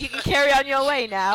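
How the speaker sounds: mock British bobby politeness; British accent. Quoting fake British cop.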